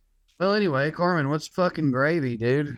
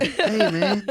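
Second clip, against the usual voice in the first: Cheech and Chong dude; 4 semitones higher than usual. Retold or imitated. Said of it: "you sound like an old Cheech and Chong type dude".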